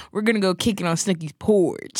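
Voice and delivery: "porch" with a leaned-on "orch"; "porch" ending on a hard, exaggerated "orch". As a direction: imitate the show, hitting the "orch" in "porch". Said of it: "orch onto it".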